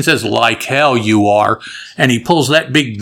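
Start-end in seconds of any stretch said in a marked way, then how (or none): 0.2-1.6 John Wayne impression. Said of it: "in the best John Wayne imitation".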